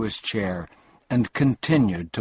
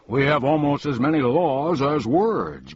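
grumbling; 6 semitones higher, 4 dB louder than usual. A narrator's reading. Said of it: "grumbled the king".

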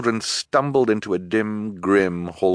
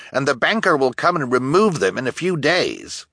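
officious elder; 7 semitones higher than usual. Acted. Elder continues.

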